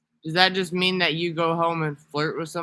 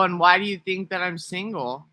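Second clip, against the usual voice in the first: a lighter touch of the put-on voice, higher; milder switched-up voice; 4 semitones higher than usual. Shown as a demonstration. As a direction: ease back toward the normal voice with a trace of the switch. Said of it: "'Cause I can switch up how I talk".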